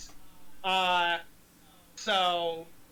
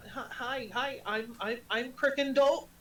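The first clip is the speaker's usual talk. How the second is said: timid stammering introduction; 2 semitones higher, slower than usual. Acted. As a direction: stumble shyly into your own name. Ugly devil shyly introduces himself.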